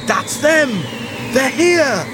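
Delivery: dramatic warning cry; alarmed. Acted. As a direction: call out in mild alarm. Alarm as spaceship lands.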